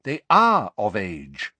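slow, tired insistence; tired husband stressing a point; weary. A narrator's reading. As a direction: state it wearily and slowly. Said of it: "said Mister Weasley wearily".

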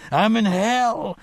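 high, drawn-out anguished cry; tormented scream. A narrator's reading. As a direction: cry out in torment, stretching the words. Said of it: "he screamed up at her".

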